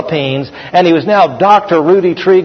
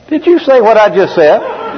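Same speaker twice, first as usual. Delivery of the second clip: higher-pitched, amused incredulous question; mock disbelief; 5 semitones higher than usual. Preacher doubting his translator's very short version, mock disbelief. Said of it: "I'm like".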